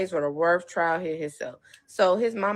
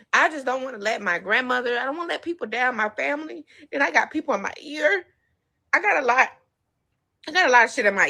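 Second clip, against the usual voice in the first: teary voice; 4 semitones higher, faster than usual. Real, not acted. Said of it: "that's why I'm crying".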